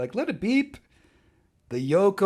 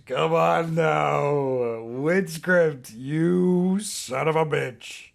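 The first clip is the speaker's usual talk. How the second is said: mock outrage; much slower than usual. Real, not acted. Mock outrage at good joke.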